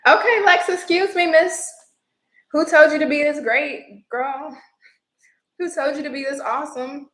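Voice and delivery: high, loud gushing praise; squealing compliments; excited hype. Real, not acted. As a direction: gush over her like a proud friend. Hyping up a viewer.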